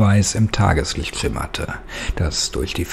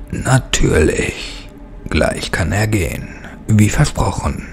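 sly creature voice. Acted. Devon mockingly promises Martin's freedom in a hissing voice. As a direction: feign generosity with a ghostly hiss. Devon answers with false kindness.

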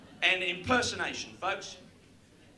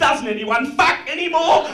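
Red Riding Hood; 9 semitones higher, 8 dB louder than usual. Acted. Red Riding Hood answers wolf.

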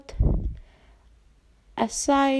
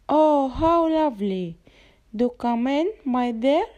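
croaking. Acted. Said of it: "croaked the wolf".

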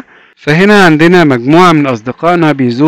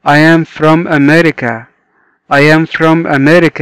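slow, word by word; slow teacher read; slow model reading; much slower than usual. Shown as a demonstration. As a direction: model it slowly for learners. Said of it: "صديقنا بيقول لنا".

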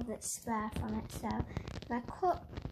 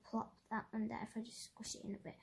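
fast, soft whisper; 2 semitones lower, 12 dB quieter, faster than usual. Real, not acted. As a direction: whisper to yourself while working. Whispering while working.

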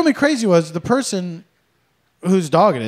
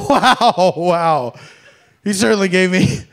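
sarcastic politeness. Retold or imitated. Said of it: "Just something like".

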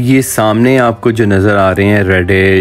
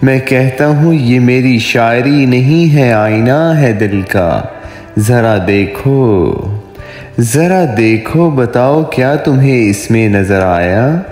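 poetry recitation; 3 semitones higher than usual. Acted. Poet voicing a dialogue of lovers for his viewers, romantic poetry recitation. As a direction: recite a love poem, lingering on line endings. Recites own love poem.

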